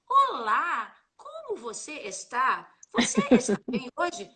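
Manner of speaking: stiff textbook Olá, como você está said slowly; stiff formal greeting. Shown as a demonstration. Teacher demos the stiff textbook greeting, formal. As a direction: sound overly correct and formal. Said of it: "viro pros meus alunos e falo assim".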